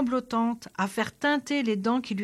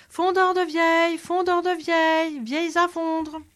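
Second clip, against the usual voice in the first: much higher, louder, chest-out bellow; loud proud cry; 7 semitones higher, 4 dB louder than usual. Acted. The swaggering soldier hawking in a back street, booming cry. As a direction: puff up the chest and bellow it down the alley. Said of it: "bombant le torse, s'enfonça dans une ruelle et se mit à crier".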